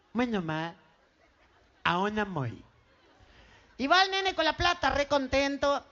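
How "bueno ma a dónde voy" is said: put-on low, softer nasal boy; gangoso, nasal twang. Boy agrees to mother's errand, low gangoso voice. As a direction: agree meekly through the nose, consonants blurred. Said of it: "nene gangoso".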